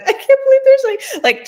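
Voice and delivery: high, loud squeaky overwhelmed voice; tearful squeal. Retold or imitated. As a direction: squeak it out like you're crying happy tears in the car. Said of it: "in my car crying".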